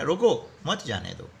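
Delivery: short break after "रोको", then "मत जाने दो"; pause after रोको. Shown as a demonstration. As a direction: set रोको apart from मत जाने दो. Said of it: "रुकने का संकेत दिया गया है". ("रोको" के बाद हल्का विराम, फिर "मत जाने दो")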